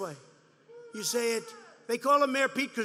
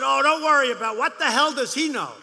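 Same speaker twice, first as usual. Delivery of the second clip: mock dismissive aides; 3 semitones higher, 8 dB louder than usual. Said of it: "And they said".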